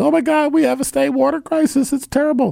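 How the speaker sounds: very high voice with a creak. Mocking places that discover a state water crisis: Sherwin Hughes impression. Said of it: "my, um, Sherwin Hughes, um, impersonation".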